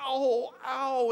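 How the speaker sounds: high, lightly voiced kid's "ow"; little boy hurt. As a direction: imitate a small boy after bumping the couch. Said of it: "He's like".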